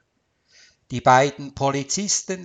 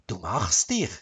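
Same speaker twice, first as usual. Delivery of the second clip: low grudging grumble, rising on "dich"; grumbled praise; 5 semitones lower than usual. A narrator's reading. Wife grudgingly praises her husband's cooking, grumbled. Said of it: "brummte sie".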